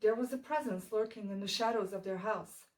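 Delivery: measured dark poetry reading, pausing after each line; solemn gothic verse delivery; poem recitation. Acted. Poem recitation resumes after outburst.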